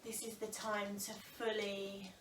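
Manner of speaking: calm, unhurried breathing guidance with long pauses; yoga teacher settling a class into the breath; guided meditation. Real, not acted. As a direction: ease them gently into stillness, phrase by phrase. Leads seated breathing meditation.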